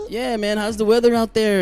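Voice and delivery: put-on casual Hispanic-accented small talk; a touch of Hispanic accent; Oscar. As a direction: lightly imitate a Hispanic friend's accent. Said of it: "I didn't took on his dialect".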